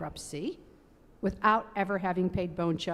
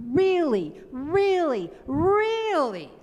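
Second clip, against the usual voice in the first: heavenly chorus; 8 semitones higher, 5 dB louder, much slower than usual. A narrator's reading. Heavenly hosts answer together.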